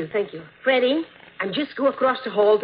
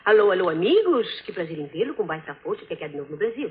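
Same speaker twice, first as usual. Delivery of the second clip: mock Spanish; 3 semitones lower, much faster than usual. Shown as a demonstration. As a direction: rattle off the greeting like Spanish. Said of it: "In Spanish, we say".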